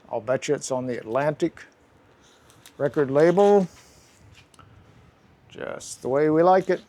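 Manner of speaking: talking with a slight lisp. Real, not acted. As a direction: lisp from whitening strips on teeth. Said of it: "sounds like I've got a little lisp".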